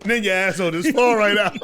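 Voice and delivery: high, laughing as he repeats. Real, not acted. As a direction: laugh through the line. Repeating joke while laughing.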